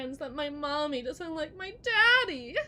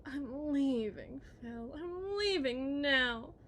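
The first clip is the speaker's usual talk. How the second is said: mocking husband; 3 dB louder, slower than usual. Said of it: "Whatever happened to".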